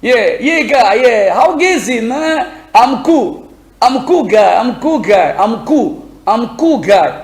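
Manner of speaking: casual put-on American accent, swallowing the L in "cool"; imitated American accent. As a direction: play an American greeting a buddy, lightly exaggerated. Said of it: "usé de l'accent américain". (imitation décontractée de l'accent américain)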